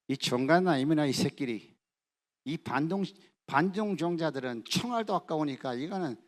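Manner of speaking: a touch of a harsh North Korean official; lightly voiced cruel guard; cursing executioner. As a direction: spit the insult at the prisoners. Executioner curses the family.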